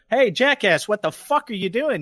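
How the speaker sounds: road-rage challenge. Retold or imitated. Driver to the man who cut in, mock road rage. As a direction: call out the other driver, acting riled.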